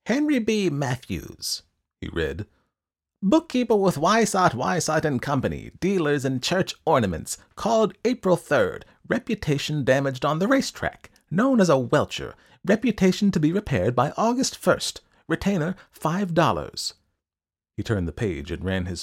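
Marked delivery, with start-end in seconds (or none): 0.0-1.6 high-pitched, officious recital; eccentric ledger-keeper. A narrator's reading. Reads Mister Wilde's ledger. 3.2-16.9 high, loud, declaiming little man; high-pitched, officious recital; eccentric ledger-keeper. A narrator's reading.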